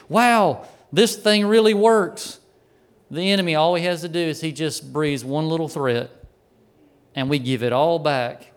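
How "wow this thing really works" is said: higher, slower acted amazement; amazed realization. Believer seeing God move on their behalf, amazed. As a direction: marvel at it, stretched out and higher.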